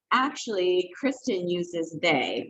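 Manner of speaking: "they" drawn out slowly at the end; emphasis on "they". Shown as a demonstration. Showing how to correct someone, emphasis on "they". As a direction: lean on the word "they" by stretching it. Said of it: "putting an emphasis on the word".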